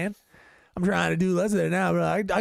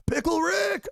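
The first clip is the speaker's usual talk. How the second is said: high, slow cartoon yell; Pickle Rick; 14 semitones higher, much slower than usual. Friend trying to do the cartoon catchphrase, high slow yell. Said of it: "I was trying to do that".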